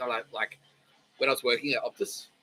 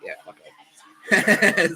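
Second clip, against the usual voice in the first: higher, louder, very slow drawn-out yes; drawn-out eager yes; 8 semitones higher, 9 dB louder, much slower than usual. Retold or imitated. Streamer retells agreeing to the quest, drawn-out eager yes. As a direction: stretch it out like you're all in.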